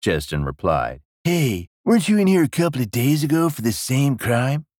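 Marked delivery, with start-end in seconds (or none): 1.2-4.7 higher-pitched, casual ruler's voice; questioning king. Acted. King questioning a repeat offender, casually puzzled. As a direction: query him higher, as if just recognizing him. King's character voice.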